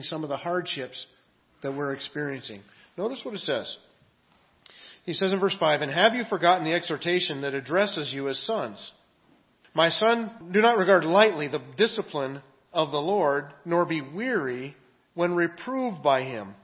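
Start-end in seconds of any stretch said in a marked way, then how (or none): 5.8-16.5 scripture reading. Acted. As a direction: proclaim the verse to the congregation. Reads scripture aloud to congregation.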